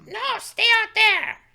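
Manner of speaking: very loud, echoing cave-goblin voice. Voicing a goblin demanding ransom for an old man: goblin voice echoing through a cave. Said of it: "in common, uh, a voice echoing through there".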